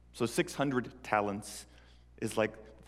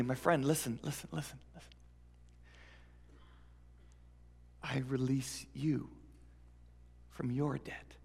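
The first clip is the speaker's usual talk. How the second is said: earnest forgiveness. Acted. Freed man forgives coworker.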